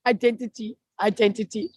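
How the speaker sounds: lightly mimicking a colleague's accent on IDENTITY; affectionate accent imitation of IDENTITY; imitated accent. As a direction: say IDENTITY copying someone else's accent. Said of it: "when Joe says in his accent".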